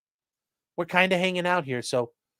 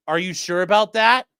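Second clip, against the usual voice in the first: mocking catchphrase; 4 semitones higher, 7 dB louder than usual. Meme catchphrase repeated mockingly.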